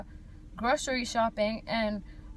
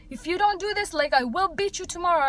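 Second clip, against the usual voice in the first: higher-pitched mock parental threat; lightly acted warning to a child, pitched up; strict African parent; 5 semitones higher than usual. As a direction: imitate a parent laying down the law. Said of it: "it's like the African way".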